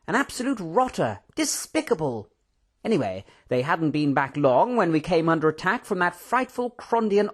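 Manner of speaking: high, swooping, theatrical raconteur; animated excitement. A narrator's reading. Professor recounting his adventures to Mister Tando, excited. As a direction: relish every adjective, pitch bouncing high. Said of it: "with the usual animated gestures and excitement".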